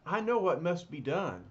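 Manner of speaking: Reed takes charge with certainty; confident leader's declaration; decisive hero. Acted. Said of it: "Reed says".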